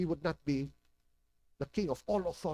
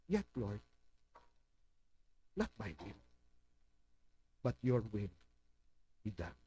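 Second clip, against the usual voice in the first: humble surrender; 6 semitones lower, 5 dB quieter than usual. Retold or imitated. Pastor modelling a sincere prayer, lower and hushed.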